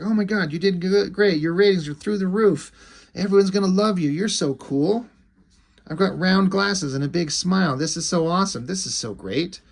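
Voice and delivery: high, excited manager voice; gushing manager. Acted. Manager hyping up his client, gushing. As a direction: gush like an over-eager manager hyping a star. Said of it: "a manager guy".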